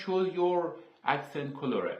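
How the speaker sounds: English words read out very slowly, one by one; slow English label reading. Shown as a demonstration. A tutor reads the English setting name to students, very slow and deliberate. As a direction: read the Windows menu label slowly to learners, spelling it out.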